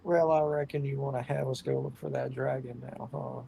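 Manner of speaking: put-on character in a Cockney accent. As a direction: speak it with a London Cockney accent. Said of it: "you're Cockney now".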